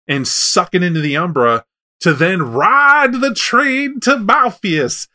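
mock a clueless hero dreaming up a crazy plan; panicky hero mockery. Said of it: "this guy's running around going".

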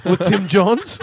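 put-on Japanese accent. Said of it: "talking in an accent".

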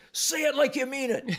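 high, hammed-up yell; a playful referee yelling at the player; retold yell. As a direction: bark it back at him, mock stern. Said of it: "I yelled at him".

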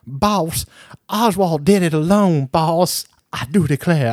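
lightly hammed-up Southern drawl; Laurie Metcalf. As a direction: parody an overdone Southern belle accent. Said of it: "Laurie Metcalf".

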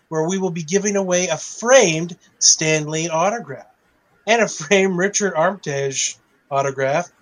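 mock-cheerful official statement; sarcastic reading. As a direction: read it dripping with sarcasm. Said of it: "I don't know if I have enough sarcasm in my voice".

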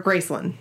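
Graceland ending in a reduced "lund"; Memphis pronunciation. Shown as a demonstration. Answering what's the right way, Graceland as GRACE-lund. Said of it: "that's how they say it in Memphis".

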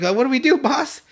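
squeaky lost minion; dopey bandit voice. Retold or imitated. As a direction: ask like a clueless goon. Bandits ask Kagome for orders.

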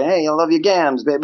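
lightly voiced 1920s fast talk; a hint of old-time patter; 1920s fast-talker. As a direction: toss off a cartoony twenties line. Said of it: "nineteen twenties kinda, like, fast talk speak".

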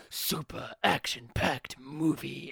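slow, gravelly eighties trailer narrator; smoky trailer voice. Retold or imitated. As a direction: drag it out like a smoker's trailer voice. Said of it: "the cigarette smoking voice".

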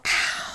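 mock pained ow. Imitates husband's pain while driving.

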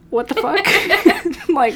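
real laugh at the absurdity; laughing disbelief. Real, not acted. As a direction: crack up in disbelief. Retelling disbelief, bursts laughing.

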